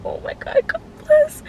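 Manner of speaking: whispered gasp, then high squeal; excited squeal. Retold or imitated. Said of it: "and I'm like".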